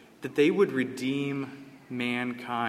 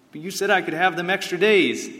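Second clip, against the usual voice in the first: mild protest; 4 semitones higher, 6 dB louder than usual. Retold or imitated. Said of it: "Alvin York says".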